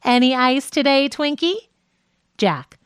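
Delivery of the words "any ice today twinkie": coy, teasing flirt with a lift on Twinkie; a light flirty tease. Acted. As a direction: flirt with him, sweetly. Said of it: "flirty voice".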